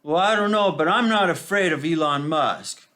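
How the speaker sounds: put-on high, loud prim old lady. Mimicking the old lady's outburst, high and loud. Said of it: "she just suddenly goes".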